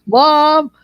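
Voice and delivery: high, loud mock kid voice; questioning children. Children asking their parents, imitated high childish voice. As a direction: call out like a curious child.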